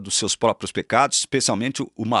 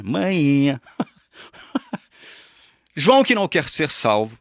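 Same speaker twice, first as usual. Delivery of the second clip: lightly hammed-up Bahian accent, higher and louder with a laugh; a playful put-on Bahian accent; mock Bahian accent; 3 semitones higher, 3 dB louder than usual. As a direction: play at a Bahian accent for fun. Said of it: "eu tô falando que nem baiano agora".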